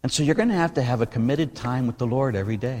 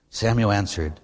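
ordinary talk

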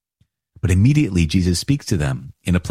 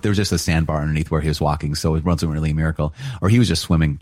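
dry, deadpan mock explanation; sarcasm; 2 semitones lower, faster than usual. Teacher mocking skeptics of miracles, deadpan sarcasm. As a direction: play the skeptic with a straight face. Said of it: "done with the sarcasm".

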